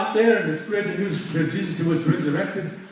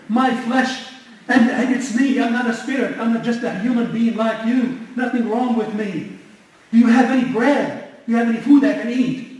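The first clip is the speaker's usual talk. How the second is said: retold Jesus; 4 semitones higher than usual. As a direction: press the point, lifted and eager. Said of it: "it's in the Bible written".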